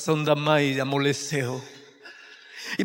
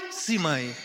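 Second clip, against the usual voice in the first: put-on a boy's small answer to his mother; timid yes; 2 semitones lower, 6 dB quieter than usual. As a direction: shrink before the scolding. Boy answers scolding mother.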